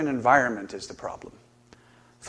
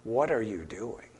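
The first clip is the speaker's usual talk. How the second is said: gentle counselor question; 3 semitones lower, 5 dB quieter than usual. Shown as a demonstration. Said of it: "classic counseling question".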